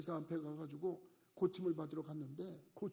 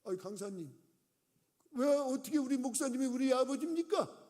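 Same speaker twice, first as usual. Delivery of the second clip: elder pressing the guest speaker, louder and higher; indignant challenge; 5 semitones higher, 6 dB louder than usual. Retold or imitated. Elder challenging the guest speaker, mock indignant. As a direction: demand it like a church elder picking a fight. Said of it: "따졌대잖아".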